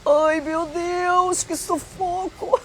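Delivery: very high, slow, stretched-out wail; hammed-up squeal of alarm, drawing out the vowels; acted panic. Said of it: "e eu fiquei". (pânico encenado, voz fininha e arrastada)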